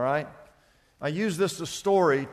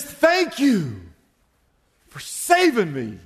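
acted thanks; slower than usual. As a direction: thank your rescuer firmly, falling away at the end. Rescued man thanks his saviour.

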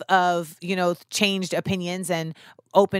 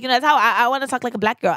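higher, mock American-accented voice; imitated American accent; 4 semitones higher, 4 dB louder, faster than usual. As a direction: lightly imitate her put-on American accent. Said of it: "speak in her American accent".

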